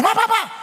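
mock gunshots. Imitating gunfire in a film.

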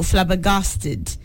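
"flabbergasted" slowly, ending in a light -tud; careful pronunciation. Shown as a demonstration. Host correcting a caller's spelling, "flabbergasted" said low and slowly. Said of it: "Maybe I should just pronounce".

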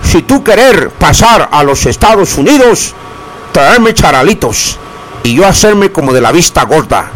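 lightly voiced gringo in broken Spanish; a hint of a foreigner fumbling Spanish; playful Trump-style broken Spanish; mock Donald Trump. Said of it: "Dijo Donald Trump".

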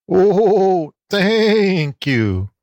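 grateful goat lady bleating. A narrator's reading. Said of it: "bleated Aunt Letty".

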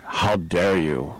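slow, lightly voiced outraged activist; mock indignation, drawn out slowly; Greta Thunberg. Fan scolding the host, a hint of slow mock outrage. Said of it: "she went Greta Thunberg".

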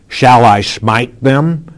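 eager, slow question rising at the end; King Jehoram asking eagerly whether to strike the enemy; excited question. Acted. King asking Elisha, excited and rising. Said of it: "You can almost hear the excitement in Jehoram's".

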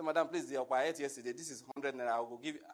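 low, quick mock haggling with a seller; pleading buyer. Buyer begging the okpa seller for a smaller portion, low pleading voice.

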